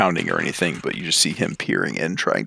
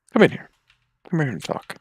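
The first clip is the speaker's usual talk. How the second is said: calling out; 9 semitones higher than usual. Acted. Grandfather calls Hamish in.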